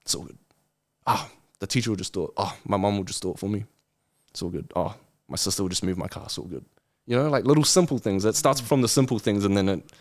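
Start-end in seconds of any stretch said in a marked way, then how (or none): 0.0-6.6 mock lazy. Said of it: "most people think".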